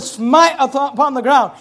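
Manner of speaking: loud, commanding prophet; shouted command. Acted. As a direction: make the prophet thunder it.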